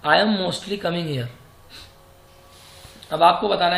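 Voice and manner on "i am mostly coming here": very slow, word by word; slow dictated English sentence; dictation pace. Shown as a demonstration. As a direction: spell it out slowly for the class. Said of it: "sentence आया".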